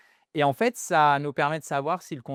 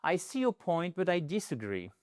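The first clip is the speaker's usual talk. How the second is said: softer, calm and courteous; polite disagreement; 3 semitones higher, 5 dB quieter than usual. Shown as a demonstration. Teacher models the polite alternative softly.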